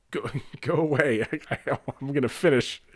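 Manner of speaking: lightly voiced Jamaican accent, laughing through it; a hint of a Jamaican knife guy telling him to go away. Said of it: "in, like, a thick Jamaican accent".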